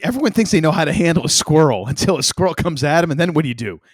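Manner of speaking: hammed-up cautionary rant; mock warning. Friend lecturing on squirrel dangers, mock-serious warning.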